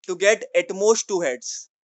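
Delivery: very slow, each word drawn apart; slow dictation. Shown as a demonstration. Teacher dictating again so students can write it down. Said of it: "बताओ".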